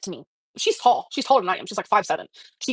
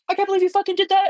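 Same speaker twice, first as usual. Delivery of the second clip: pitched way up in a mock yell; half-acted angry yell at a partner; retold yell; 10 semitones higher than usual. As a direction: replay the outburst high and heated, not full volume. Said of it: "you know, yelled".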